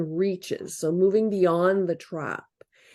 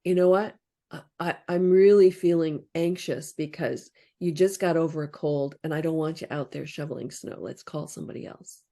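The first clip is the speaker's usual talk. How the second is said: sincere. Shown as a demonstration. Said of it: "And it's like".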